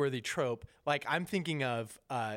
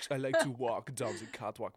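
lightly voiced, lower runway-model parody; high-fashion star impression; 4 semitones lower than usual. Podcaster mocking big-name Balenciaga stars, high-fashion impression. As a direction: send up a self-important catwalk star. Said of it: "that is my impression of high fashion".

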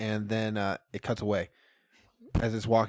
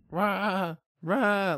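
higher-pitched mock animal cry; imitated yelling bleat; 6 semitones higher than usual. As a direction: imitate a creature yelling at a window. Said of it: "like, yelling at the fucking window".

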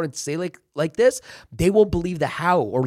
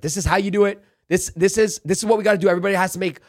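higher, pushy boss voice laying down the plan; rally the team like a sales boss; pumped-up team leader; 5 semitones higher, faster than usual. Retold or imitated. Acting out leader giving blueprint.

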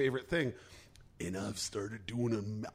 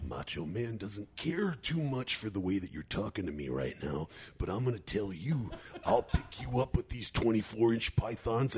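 Macho Man; 3 semitones lower than usual. Retold or imitated. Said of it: "Well, I was like".

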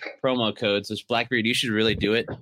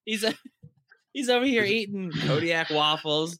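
laughing; 10 semitones higher than usual. Real, not acted. Laughing while teasing a friend eating.

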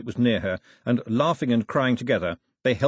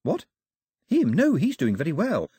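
dismissive; 6 semitones higher than usual. A narrator's reading. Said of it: "waving a hand dismissively".

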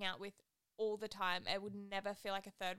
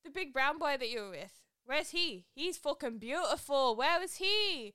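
gushing mock Manchester lad, high and loud; hammed-up British accent, building in pitch; bad UK accent; 5 semitones higher, 6 dB louder than usual. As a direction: imitate an awestruck UK lad. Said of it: "my U K accent is not good".

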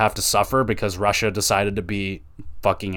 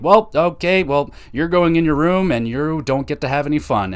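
lightly acted parent, higher at the start; scolding parent; 5 semitones higher, 3 dB louder than usual. Parent sending a misbehaving child to their room, mock scolding. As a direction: lay down the rules like a parent.

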